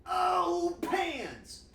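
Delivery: high, loud gut shout of oh pans; excited cry. Shown as a demonstration. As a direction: belt it out from the gut. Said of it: "can you please say in the chat".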